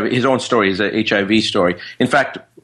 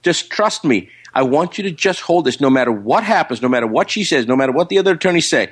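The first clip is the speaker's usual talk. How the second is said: insistent mock lecture, pitched up at the start; fatherly lecturing; 3 semitones higher than usual. Friend lectures him before his court date, insistent fatherly lecture. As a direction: lay down the law like a father, retold. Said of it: "lecturing to me like he's my father".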